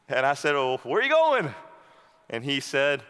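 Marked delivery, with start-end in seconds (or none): 0.5-1.5 raised, higher puzzled call; calling after a departing friend, raised. Retold or imitated. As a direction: shout the question after him. Calling up the hill.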